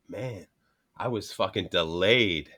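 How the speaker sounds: slow, low, lagging delivery; delayed speech. Retold or imitated. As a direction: drag it out as if lagging behind. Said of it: "like, not slow, but, like, just delayed".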